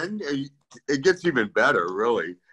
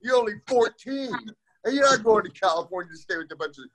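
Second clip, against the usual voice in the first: alarmed mom; 4 semitones higher than usual. Retold or imitated. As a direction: play the mom who suddenly says no. Mom refusing at the airport.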